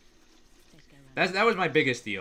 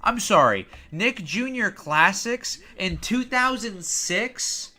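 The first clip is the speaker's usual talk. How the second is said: surprised; 4 semitones higher, 3 dB louder, slower than usual. Real, not acted. Confused at the channel name.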